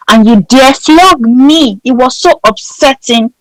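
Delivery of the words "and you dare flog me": indignant. Retold or imitated. Defiant retort to senior.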